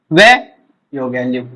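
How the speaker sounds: वे drawn out, low and slow; slow sounding out. Shown as a demonstration. Teacher building लीव sound by sound, slow and low. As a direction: spell the word out in a slow low voice. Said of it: "ये होता है लीव".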